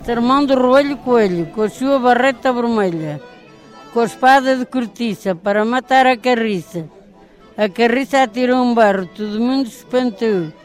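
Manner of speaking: rhythmic folk verse recitation; reciting a rhyme. Acted. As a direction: chant it like a nursery rhyme.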